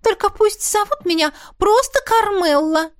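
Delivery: strictly. Acted. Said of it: "строго добавила она".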